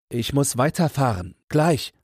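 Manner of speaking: frantic demand without shouting; beside himself. A narrator's reading. Traveller to stationmaster about onward journey, beside himself. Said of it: "ruft er außer sich".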